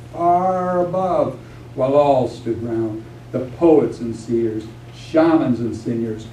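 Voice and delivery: measured, incantatory verse reading; epic poem recitation. Acted. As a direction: let the repeated images roll out like a chant. Poet continues reciting epic poem.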